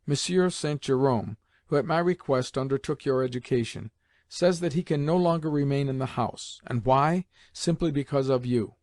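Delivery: "Monsieur Saint Jerome" set out word by word, each one weighted; measured, deliberate weight on every word from "Monsieur" to "you"; emphasis on each word. A narrator's reading. Grandmother reproaching the boy over his tutor, emphatic on each word. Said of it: "with an emphasis on each word".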